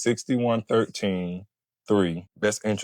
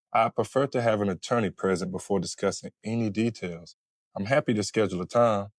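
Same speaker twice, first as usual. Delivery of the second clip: calm. Shown as a demonstration. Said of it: "How about we say this calmly?".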